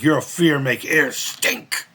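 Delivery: put-on slow, lightly accented Sato line; mimicked Sato accent. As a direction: stretch each word in a mild Japanese accent. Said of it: "And he'd be like".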